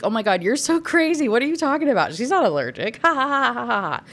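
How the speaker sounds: husband laughing off the allergy mix-up; mock laughing. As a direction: laugh it off like she's crazy. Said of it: "he says this with a laugh".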